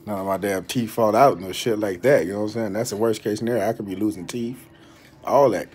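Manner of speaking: talking through a mouthful; words around fluoride in mouth; mouth full. Real, not acted. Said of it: "get some of this white shit out of my mouth".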